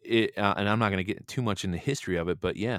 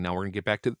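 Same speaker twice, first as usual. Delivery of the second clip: hiccuping between words; with hiccups; faster than usual. Real, not acted. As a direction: talk through the hiccups. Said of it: "Excuse me, I have hiccups".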